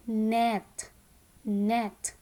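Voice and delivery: "net" said separately with short eh; phonics-teacher "net" with eh vowel. Shown as a demonstration. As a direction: model "net" as a single word. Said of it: "net has the short sound".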